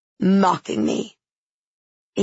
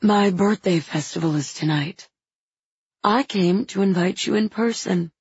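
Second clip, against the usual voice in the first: solemn tone. Acted. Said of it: "in a far more solemn tone".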